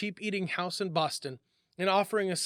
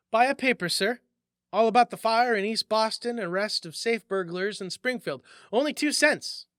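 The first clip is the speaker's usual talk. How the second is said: calling out; 4 semitones higher, 4 dB louder than usual. Acted. Newsboy hawking his paper.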